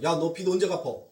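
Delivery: a blunt, rough demand for the money. Retold or imitated. Pastor imitating a blunt lender asking when the debt gets paid, rough. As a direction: snap at the debtor about the debt. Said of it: "라고 이렇게".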